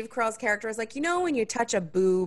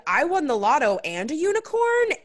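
mock ecstatic; 10 semitones higher, 4 dB louder than usual. Imagined ecstatic response.

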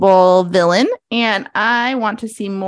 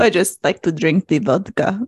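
mock Russian accent; 3 semitones lower than usual. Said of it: "a Russian accent like her".

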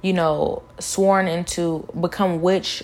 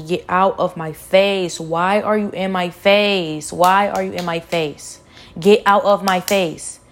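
slow, firm retelling of an angry outburst, building louder; a touch of real anger as she recalls calling them out; retold telling-off; 4 dB louder than usual. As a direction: replay telling them to get out of your face, half-acted. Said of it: "I started calling them out".

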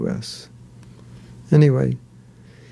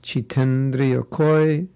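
Bengali accent; slower than usual. Shown as a demonstration. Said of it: "Bengali accent".

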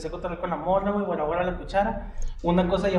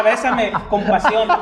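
slow, louder, laughing; mock passionate plea; 3 semitones higher, 5 dB louder, slower than usual. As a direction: draw out bésame like a telenovela. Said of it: "O sea". (súplica de telenovela, lenta y entre risas)

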